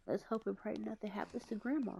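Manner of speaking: hushed whispered prayer. Acted. Sister whispers a hope that nothing happens to Grandma. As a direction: breathe it out as a worried secret wish.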